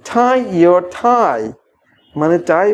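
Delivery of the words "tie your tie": tie your tie stretched out very slowly; slow model phrase. Shown as a demonstration. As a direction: draw out each word for learners. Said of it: "ইংরেজরা এটাই বলে থাকে".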